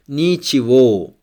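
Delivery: ничего with the stressed final О said as wo, ни-че-ВО; stressed wo ending. Shown as a demonstration. Teacher showing learners that ничего ends in a stressed wo. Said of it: "Here O is stressed".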